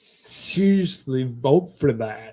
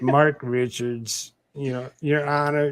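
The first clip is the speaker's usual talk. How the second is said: Mark Richards impression; slower than usual. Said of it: "I can't even do it right".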